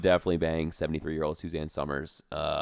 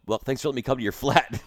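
mock British accent; 4 semitones higher, much faster than usual. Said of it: "Who invited the British guy".

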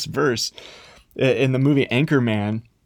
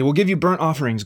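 eager offer; 5 semitones higher, 4 dB louder, faster than usual. Acted. Israelites bargaining with God.

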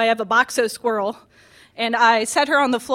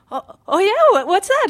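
high, eager mom imitation; excited mother; 9 semitones higher, 3 dB louder than usual. Mom hearing of a new animal, high excited imitation. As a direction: imitate a fascinated mom, pitched way up. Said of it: "my mom's really excited about everything I do".

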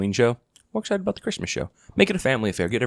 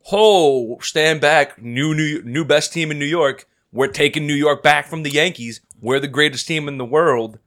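cocky fan mockery; 4 semitones higher, slower than usual. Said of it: "but the Mets fans".

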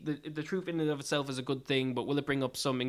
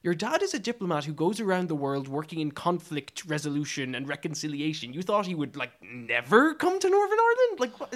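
incredulous; 2 semitones higher than usual. Acted. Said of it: "I'm just like".

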